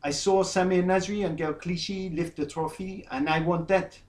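lightly put-on French accent quoting a footballer; mock French accent, mildly done. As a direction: read his words with a hint of a French accent. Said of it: "in his French accent".

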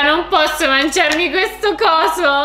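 dismayed protest. Real, not acted. Protests eating the honeycomb.

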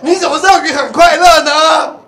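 high, slow, shouted challenge; Huishi. Acted. Huishi walks over to question Zhuangzi, high drawn-out shout. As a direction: question it in a loud, stretched, high-pitched voice. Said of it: "然后惠施走过去就".

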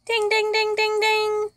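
high, loud game-show bell chant; ding ding bell. Pretend. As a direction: ring out like a quiz bell. Correct-answer bell call.

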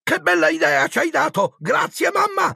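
high, mischievous thanks; delighted boyish exclamation; gleeful cheek. A narrator's reading. Twins cheekily thank their mother.

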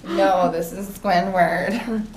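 slow, drawn-out cartoon answer; lightly put-on stuffy character voice; Squidward. Answering a pretend Krusty Krab call, mock Squidward voice. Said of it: "You sound like Squidward".

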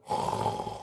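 soft, voiceless mock roar; breathy roar imitation. Shown as a demonstration. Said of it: "what's a roaring sound?".

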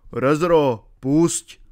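commanding. A narrator's reading. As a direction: command the dog loudly and firmly. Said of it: "přikázal pastýř". (hlasitý povel psovi)

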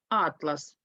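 атлас with the first а stressed; stress on first syllable. Shown as a demonstration. Teacher explaining the map meaning, stress on the first syllable of атлас. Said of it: "наголос падає на перший склад".

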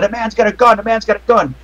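half-hearted crowd alarm, repeated urgently; crowd yelling. Acted. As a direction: imitate bystanders raising the alarm. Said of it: "you hear people yelling".

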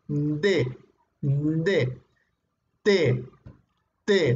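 D and T, tongue on the teeth; demonstrating D and T. Shown as a demonstration. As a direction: show the dental sounds. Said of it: "Por ejemplo, la D".

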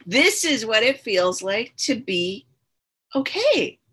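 imitating her high, awed voice; high, wondering voice of the first hit; retold high. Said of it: "And I was like".

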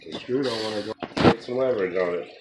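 ordinary delivery

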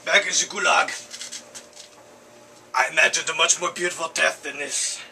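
a lightly put-on Russian soldier, lamenting his death; hammed-up deathbed lament in a mild Russian accent; dying Russian soldier. Third take of the lament.

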